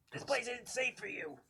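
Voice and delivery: high, slow called-out warning; yell. Acted. Player yelling a warning to the kid, high and slow. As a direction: call the warning across the room, drawn out. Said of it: "I'm gonna yell to the kid".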